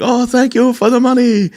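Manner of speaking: high-pitched caricature of an Asian streamer; put-on high Asian guy voice; Asian guy impression. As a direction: pitch it way up, mock-grateful livestreamer. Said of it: "like, an Asian guy be like".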